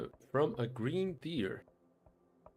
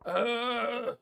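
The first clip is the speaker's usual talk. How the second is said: much higher, louder, slow scornful dwarf; indignant dwarf; 9 semitones higher, 5 dB louder, slower than usual. Acted. Dwarf denouncing the woman as a liar to the stranger, loud and high. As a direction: spit out liar with disgust.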